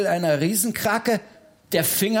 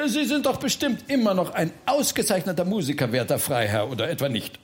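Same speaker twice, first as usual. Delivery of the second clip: flattering; faster than usual. Acted. Flattering the Freiherr into playing.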